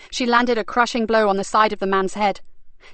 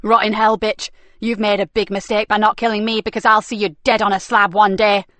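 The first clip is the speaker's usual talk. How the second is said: furious yell; 5 dB louder than usual. Acted. Nicky yells after Frankie.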